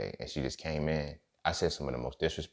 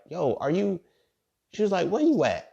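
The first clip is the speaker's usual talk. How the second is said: mock concerned friend; 14 semitones higher, 5 dB louder than usual.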